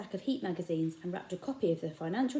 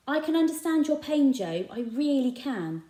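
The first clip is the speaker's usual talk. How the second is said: gentle; 7 semitones higher, 6 dB louder than usual. A narrator's reading. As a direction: offer sympathy carefully. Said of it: "ventured Raj".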